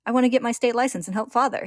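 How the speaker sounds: put-on eager boy. A narrator's reading. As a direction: pipe up keenly as a little boy. Eager little boy voiced in story.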